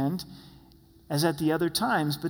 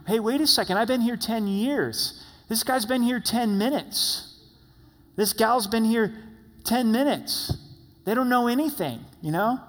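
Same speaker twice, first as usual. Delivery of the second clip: mock-offended whining about the new hire, pitched up; indignant coworker; 4 semitones higher than usual. Preacher imitating a jealous employee, mock indignant. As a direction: play the jealous veteran griping about the newcomer. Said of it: "You're like, Hey".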